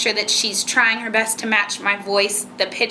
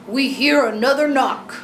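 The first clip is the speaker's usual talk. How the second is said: higher, silly put-on storybook voice; silly changed voice; 4 semitones higher, 3 dB louder than usual. Shown as a demonstration. Mother urges child to do better, higher silly voice. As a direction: put on a playful raised voice for copying. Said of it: "change my voice a little bit".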